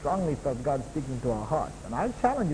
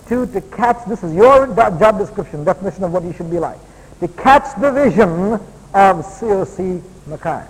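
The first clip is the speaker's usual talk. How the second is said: emphatic preaching; 4 semitones higher, 11 dB louder than usual. Acted. Preaches the second point.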